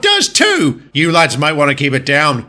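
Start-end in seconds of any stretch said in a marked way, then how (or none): 0.0-0.8 put-on childish shout. Bickering engines at the end of their squabble, childish shout. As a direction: win the squabble by yelling.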